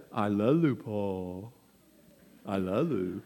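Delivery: lightly voiced small child, soft; little toddler. Toddler granddaughter telling grandpa she loves him, lightly voiced. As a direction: coo it like a toddler learning words. Granddaughter's first words imitated.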